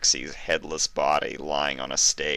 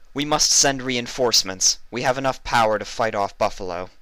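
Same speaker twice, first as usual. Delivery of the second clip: regal command; 6 semitones higher, 4 dB louder than usual. Acted. Princess commands reinforcements.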